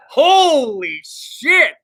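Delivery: slow, high, stretched exclamation; stunned exclaim. Real, not acted. After nearly getting canceled, a slow stunned exclamation. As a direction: drag it out in disbelief. Relieved after near gaffe.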